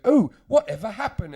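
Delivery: high, loud, laughing flustered gush; flustered Russell Brand. Retold or imitated. Russell Brand flailing as drunk Jim confronts him, high laughing gush. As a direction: gush like a flustered dandy caught out.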